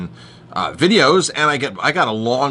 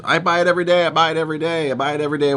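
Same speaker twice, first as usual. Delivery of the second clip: mock Asian accent, higher pitched and repeated insistently; retelling a phone call, mimicking the manager's Asian accent; imitating an Asian accent; 6 semitones higher, much faster than usual. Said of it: "in her, in her Oriental accent".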